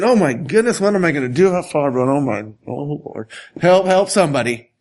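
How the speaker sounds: lightly voiced mock panic, hurried; fake-fret the line, half-hearted. Pastor mocking the idea of a panicking God, mild mock panic. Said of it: "God's not freaking out".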